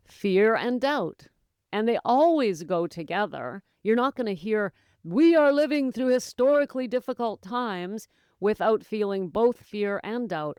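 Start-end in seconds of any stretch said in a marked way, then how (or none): 5.0-8.1 slightly higher, earnest mock pronouncement; put-on sincerity, pitched up; mock sincere. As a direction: imitate an earnest ad presenter's solemn warning. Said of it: "she was so sincere".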